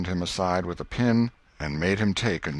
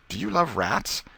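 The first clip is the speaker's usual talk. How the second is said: eager Tom; 9 semitones higher than usual. A narrator's reading. Tom asks Becky.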